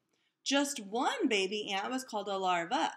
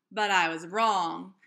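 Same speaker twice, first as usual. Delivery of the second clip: upset; 4 semitones lower, 6 dB louder than usual. A narrator's reading. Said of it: "Keisha was upset".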